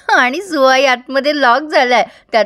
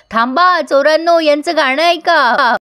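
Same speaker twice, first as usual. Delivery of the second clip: mock shout; 3 semitones higher than usual. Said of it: "आतूनच ओरडत असतात".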